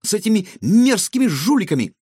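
высокий громкий возглас; с отвращением выкрикни; восклицание. A narrator's reading. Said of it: "воскликнула Илона". (девочка громко и высоко обличает жуликов)

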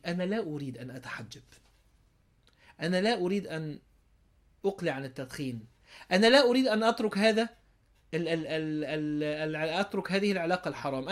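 low, measured formal declaration; mock formal refusal. The self secretly refusing to change, mock formal refusal. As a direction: state the refusal in stiff classical Arabic. Voicing the inner trick's hidden meaning.

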